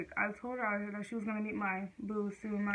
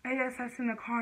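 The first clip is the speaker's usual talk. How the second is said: loud, higher retold yell at her kid; mom yelling; 3 semitones higher, 5 dB louder than usual. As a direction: mimic mom snapping at you to get in the car. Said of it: "she was just yelling and cussing".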